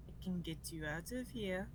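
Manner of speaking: hushed, leaning in close; whisper. Acted. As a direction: whisper it like a secret offer. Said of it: "and whispers".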